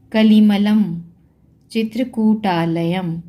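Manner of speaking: कलिमलम and चित्रकूटालयम closing on "m"; anusvara as m. Shown as a demonstration. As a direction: sound out कलिमलम, चित्रकूटालयम to the final m. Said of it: "म के रूप में होगा". (कलिमलम, चित्रकूटालयम के अंत में "म")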